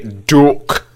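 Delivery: "Duck" as a Scottish "dook"; exaggerated Scottish vowel on "Duck"; Scottish accent. Shown as a demonstration. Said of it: "but say".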